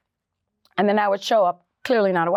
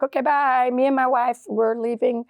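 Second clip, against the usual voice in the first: breezy goodbye; 4 semitones higher than usual. Retold or imitated. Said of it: "my dad was like".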